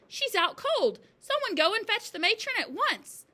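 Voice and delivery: high, loud, urgent alarm; crying out. A narrator's reading. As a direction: send for help urgently. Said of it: "she cried".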